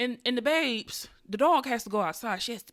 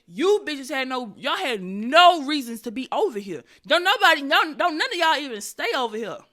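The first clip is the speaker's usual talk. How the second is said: loud, high scolding holler; hollering at kids; 4 semitones higher, 8 dB louder than usual. Retold or imitated. Owner yelling at the kids on the steps, loud scolding holler. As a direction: yell them off the steps, laughing at them. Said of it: "I hollered because I said".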